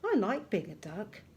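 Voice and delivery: lively little dog, mildly excited. Shown as a demonstration. Teacher voicing little dog for an exclamation mark, excited. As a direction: read it with excited expression. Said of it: "saying it in a very excited voice".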